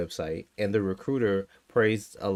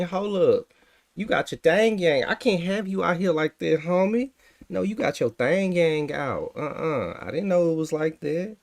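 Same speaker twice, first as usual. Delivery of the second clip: higher, louder joking outrage; playful mock horror, raised voice; mock scandalized; 5 semitones higher, 3 dB louder than usual. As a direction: act shocked at the white theme. Mock scandalized at white theme.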